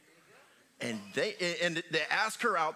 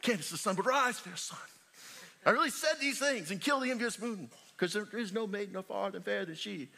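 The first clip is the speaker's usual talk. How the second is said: hammed-up Romeo; 4 semitones higher than usual. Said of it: "I went through the whole thing like".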